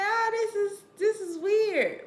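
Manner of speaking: high, freaked-out mock mother; freaked-out mom. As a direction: imitate a startled mother, high-pitched. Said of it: "She was like".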